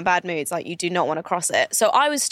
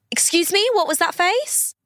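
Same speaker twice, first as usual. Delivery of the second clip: imitated indignant stranger; 9 semitones higher than usual. Customer challenging her from behind in a shop, high mock indignation. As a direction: put on her high-pitched affront. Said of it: "all I hear behind me is".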